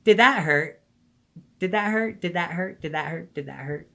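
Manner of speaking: high voice, starting loud and fading down; mocking imitation. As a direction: parody the question everyone asks, on repeat. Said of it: "she says what every fucking person asks you".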